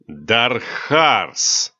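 spat out. Acted. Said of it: "словно выплюнул".

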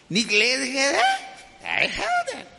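put-on squeaky, very high kid's crow of triumph; a little boy delighted at your envy; taunting child voice; gloating child.

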